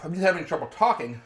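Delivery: swollen tongue, thick speech; numbed throat. Real, not acted. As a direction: talk through a burning, swollen tongue. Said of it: "you sound like your tongue is swollen".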